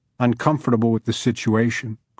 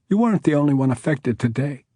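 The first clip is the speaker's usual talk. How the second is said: higher, creaky outcry; creaky cry; 4 semitones higher, faster than usual. Acted. Shaken judge telling him she suffered too, creaky cry. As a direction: let the voice creak as you cry it out. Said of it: "she cried out in that same creaky voice".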